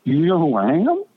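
high, breathless fan excitement; starstruck gushing. Retold or imitated. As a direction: gush like a starstruck fan meeting his idol. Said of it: "My father goes stupid for twenty seconds".

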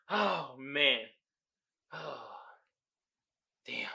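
winded after laughing hard; catching breath after laughing hard. Real, not acted. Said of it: "let me compose myself".

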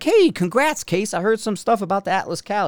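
high-pitched opening, as if hailing a friend; bright retold greeting to a buddy; cheerful congratulations. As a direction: act out upbeat congratulations, starting high. Retelling cheerful congratulations to Casey.

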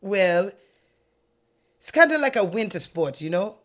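lightly voiced Jamaican accent; Jamaican accent attempt. Coach explains the winter sport, hesitant Jamaican accent attempt. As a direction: try a modest Jamaican accent. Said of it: "Don't judge me on my accent".

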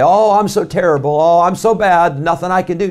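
mock moaning about how bad you are; preacher lightly mocking empty self-pity.

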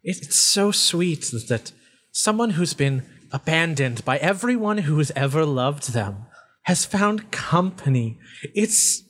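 lightly voiced, lingering relish; gloating deranged being. Voice delights in Wiz finding company, gloating. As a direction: savor someone else's misery. Game master voices the faceless voice.

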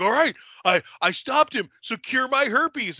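a lightly voiced cocky guy demanding his reward; mock dude voice. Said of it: "He's like".

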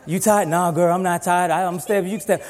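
sleepy lovestruck phone voice; coy young couple on phone; giggly late night call. Retold or imitated.

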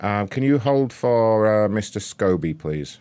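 slow, sugary call-centre hold request; hammed-up polite operator; mock hold request. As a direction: draw it out like a fake receptionist. Prank caller puts on hold.

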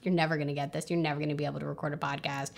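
low, quiet grumbling put-down; gremlin inner voice. Acted. Inner gremlin belittling a new podcaster, low muttered scorn. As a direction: mutter scorn under your breath, pitch dropped. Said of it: "we all have those little gremlin voices".

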